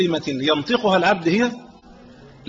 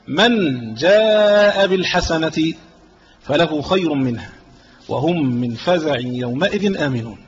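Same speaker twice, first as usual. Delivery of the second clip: Quran recitation; slower than usual. Acted. Preacher reciting the verse to listeners, slow and solemn. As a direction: chant the verse slowly and solemnly.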